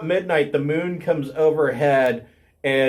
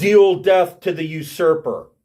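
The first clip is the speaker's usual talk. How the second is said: booming, resounding female voice, seeming to come from all around; 4 dB louder than usual. A game master voices a voice heard inside a character's head: booming female voice. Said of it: "a booming female voice".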